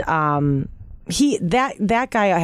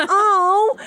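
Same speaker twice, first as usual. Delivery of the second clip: surprised oh; 13 semitones higher than usual. Retold or imitated. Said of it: "But I was like".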